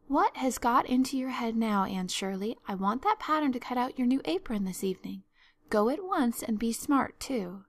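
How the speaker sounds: brisk, exasperated guardian, lightly voiced; mild scolding. Marilla orders Anne to fetch the pattern, mildly exasperated. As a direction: give a firm order with some impatience.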